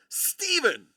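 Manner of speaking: loud high shout of a name; calling out. Real, not acted. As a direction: yell for him across the house. Calling out to Steven.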